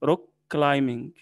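"كلايمينج" with M straight into -ing; teacher models "روك كلايمينج", B unspoken; silent B. Shown as a demonstration. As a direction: leave out any B in "كلايمينج". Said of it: "أي بي بعد إم في الإنجليش ما بننطقهاش".

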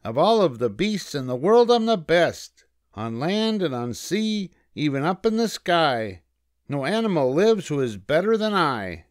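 high-pitched, bragging little rabbit; puffed-up high character voice; boastful rabbit. A narrator's reading. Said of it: "he boasted out loud".

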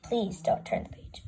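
hushed, breathy whisper; whispered plea. Acted. Narrator warning the reader, whispered.

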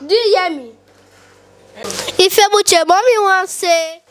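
mimicking mom. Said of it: "guys can mimic me".

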